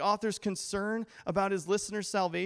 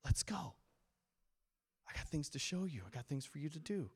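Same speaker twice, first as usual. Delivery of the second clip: very soft, near-whispered invitation; God; 3 semitones lower, 12 dB quieter than usual. Acted. Loving father calling us back again, hushed gentle urging. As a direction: beckon them back gently and quietly. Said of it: "He's calling us back again".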